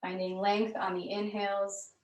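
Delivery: calm, measured yoga-class delivery with long pauses; guided yoga instruction. Real, not acted. Yoga teacher leading students through gentle movement, calm guided instruction.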